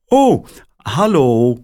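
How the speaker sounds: surprised caller on the line; woman's voice. A narrator's reading. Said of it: "zegt de stem weer".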